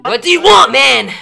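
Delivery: fed-up burst of annoyance; exasperated. Real, not acted. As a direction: snap back at someone pestering you. Annoyed gamer answers pestering caller.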